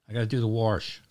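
Baltimore accent. Shown as a demonstration. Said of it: "It's a Baltimore accent".

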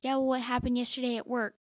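interrogating Dwight. Retold or imitated. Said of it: "is like".

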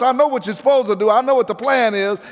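alarmed demons. Acted. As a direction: plead like a cornered demon. Demons pleading with Jesus.

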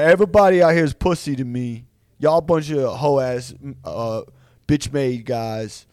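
mock battered fighter, slowing down; defiant to the last, dragging out the insults; Nate Diaz. Bloodied fighter taunting everyone, mock-dying defiance. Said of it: "as he's dying, like, he's been shot".

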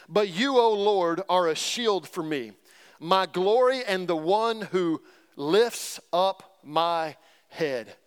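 slow, measured scripture reading. Acted. Preacher reading Psalm 3 to the congregation, slow and reverent. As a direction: read the psalm slowly and reverently.

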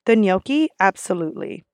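polite. Acted. Server politely confirming a guest's order, polite and softening. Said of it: "So I always politely say".

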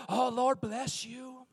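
slow sarcastic Lord bless you. Retold or imitated. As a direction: drag it out through irritation. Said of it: "first thing that comes to my mind".

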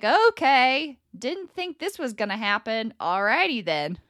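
lightly acted upbeat acceptance; mildly excited acceptance. Someone greeting an unexpected change, mildly excited. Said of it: "you're excited when change comes".

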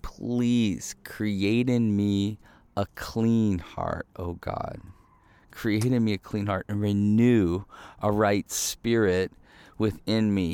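a humble plea for a clean heart; hushed prayer. Acted. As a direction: pray it slowly, almost under the breath. Quoting David's prayer to God.

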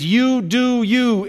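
slow, scornful "You do you"; mocking quote. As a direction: sneer at the phrase. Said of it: "I cannot stand this phrase".

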